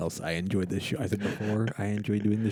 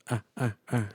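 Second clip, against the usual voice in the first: monkey chatter; 2 semitones higher than usual. Retold or imitated. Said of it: "she makes the monkey sound".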